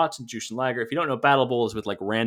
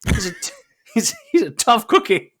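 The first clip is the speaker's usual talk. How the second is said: imitating a wrestler's deadpan line, pitched up; hammed-up deadpan tough-guy quote; deadpan impression; 9 semitones higher, 4 dB louder than usual. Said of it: "very deadpan goes".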